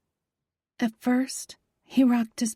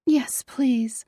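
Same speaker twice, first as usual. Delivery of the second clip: pleading, whispered yes please; begging whisper; 3 semitones higher than usual. Acted. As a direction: beg for it in a whisper. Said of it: "I begged".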